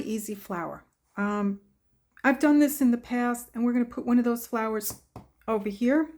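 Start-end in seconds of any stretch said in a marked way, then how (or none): 3.5-6.1 talking through hiccups; hiccuping between words. Real, not acted. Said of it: "I get the hiccups".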